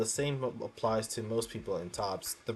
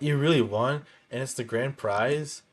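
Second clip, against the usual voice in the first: surprised; 3 semitones higher, 4 dB louder than usual. Acted. Hearing about the grand prize.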